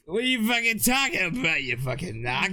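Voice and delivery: rough Boston tough guy; heavy Boston accent, annoyed. Acted. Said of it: "my Boston voice".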